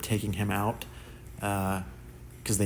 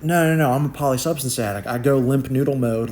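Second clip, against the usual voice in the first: insistent protest; 3 semitones higher, 6 dB louder than usual. Retold or imitated. Protesting to staff, retold.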